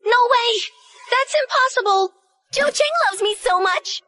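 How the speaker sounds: put-on a girl crying out against the truth about her love; shocked denial. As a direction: shout it down, refusing to believe. Girl refusing the harsh truth.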